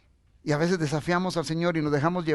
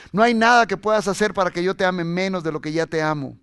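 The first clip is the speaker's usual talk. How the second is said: raised, insistent preacher delivery; emphatic preaching; 3 semitones higher, 6 dB louder than usual. Real, not acted. Preacher relays Jesus's unchanging love to the church, emphatic preaching. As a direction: drive each phrase home firmly.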